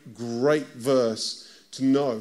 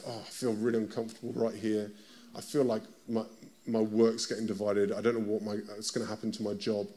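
worried inner voice; 7 semitones lower, 8 dB quieter, faster than usual. Acted. Voicing a worried believer.

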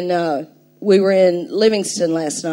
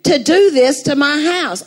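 angry demand; 5 semitones higher than usual. Retold or imitated. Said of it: "I am so mad".

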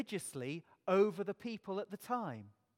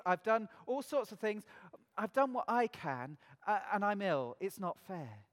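complaining voice; 3 semitones higher, 4 dB louder than usual. Pretend. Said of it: "things in our health".

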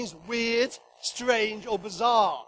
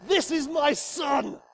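slow, louder proud declaration; proudly proclaiming to a crowd; proud announcement; 6 dB louder, slower than usual. Shown as a demonstration. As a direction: show him off to everyone. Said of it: "saying to everybody".

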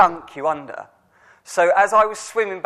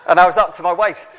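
laughing at himself; 6 dB louder, faster than usual. Real, not acted. Laughing at own embarrassment.

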